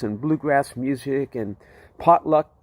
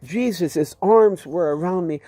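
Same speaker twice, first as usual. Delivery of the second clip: ordinary talk, nothing marked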